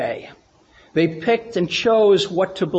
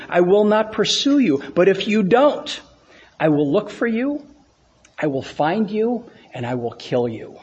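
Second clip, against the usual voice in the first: Liam Neeson Taken quote. Retold or imitated. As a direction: deliver the threat like the action hero on the phone. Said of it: "I can't do it with the, the emphasis that he does, but just follow along".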